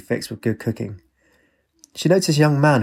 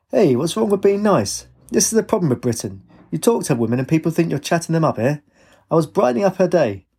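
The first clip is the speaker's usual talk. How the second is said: higher-pitched, protesting dad; indignant father; 6 semitones higher than usual. Acted. Father defending his friendliness to daughter, indignant.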